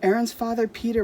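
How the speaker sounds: ordinary delivery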